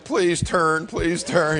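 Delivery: put-on a touch of scared boy pleading. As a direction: plead with the stampeding cows. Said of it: "I'm like".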